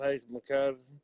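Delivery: repeated through a lip of dip; lip full of dip. Real, not acted. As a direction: cousin said around tobacco. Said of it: "Say that little dip in your mouth".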